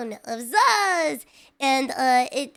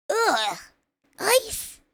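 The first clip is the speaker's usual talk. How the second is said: disgusted; 7 semitones higher than usual. Real, not acted. Disgust at ice in cereal.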